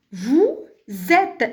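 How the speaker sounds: "vous êtes" linked with a z sound, word by word; liaison marked. Shown as a demonstration. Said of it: "il faut marquer la liaison".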